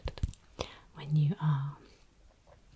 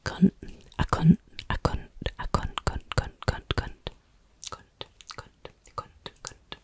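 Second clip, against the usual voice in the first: "cunt" whispered as a Yorkshire couldn't, squashed into one syllable; 8 dB louder than usual. Shown as a demonstration. Yorkshire "couldn't", whispered to viewers. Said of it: "That's how we say couldn't".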